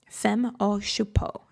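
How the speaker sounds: whispered, slow, self-mocking French accent on Femme au Chapeau; horrible French accent. Shown as a demonstration. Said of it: "A horrible French accent there".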